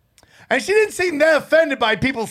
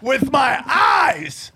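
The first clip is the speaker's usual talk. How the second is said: drawn-out mock boast; 2 semitones higher, much slower than usual. Joking escalation of the boast.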